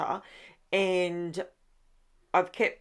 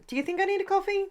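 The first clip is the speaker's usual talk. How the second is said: a silly high playful voice asking herself; teasing herself in a high, fast voice; high, fast mock voice; 12 semitones higher, much faster than usual. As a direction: pitch way up and rattle it off quickly. Playful self-question about coffee.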